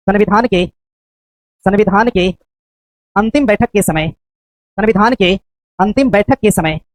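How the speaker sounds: slow dictation. Shown as a demonstration.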